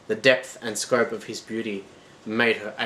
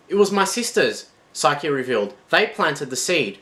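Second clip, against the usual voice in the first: desperate explaining; 6 semitones higher, 5 dB louder than usual. Acted.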